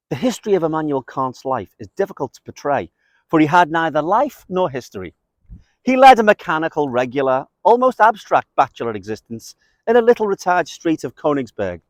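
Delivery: measured literary recitation, slightly lifted; quote reading. Acted. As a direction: read it out as a wry biography. Reads a long quote aloud.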